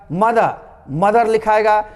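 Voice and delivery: मदर said as madə, the r dropped; silent final r. Shown as a demonstration. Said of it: "रॉ को silent के बराबर कर देना है".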